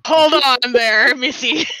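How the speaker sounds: slow, laughing so hard it nearly cries; barely holding it together through laughter; breaking up with real laughter. Real, not acted. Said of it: "I'm trying not to cry from laughing so hard".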